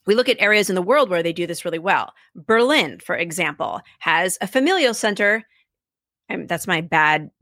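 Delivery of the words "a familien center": lightly attempted German accent in English; bad German accent. Shown as a demonstration. Podcast guest names a Berlin institution, bad German accent. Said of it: "like, German accent said in English".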